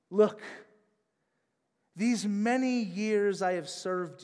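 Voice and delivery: put-on a touch of an indignant older son; resentful son. Older son's complaint quoted.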